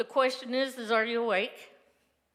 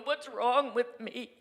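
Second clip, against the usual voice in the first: slow, pleading cry to God; retold sobbing plea; 3 semitones higher, slower than usual. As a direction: ask it slowly like a lost soul. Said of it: "Just sobbing to God, going".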